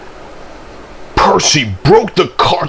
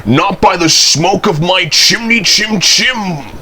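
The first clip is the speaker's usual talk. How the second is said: storybook refusal; 8 semitones higher than usual. A narrator's reading. Toby refuses ghost, parodying three pigs.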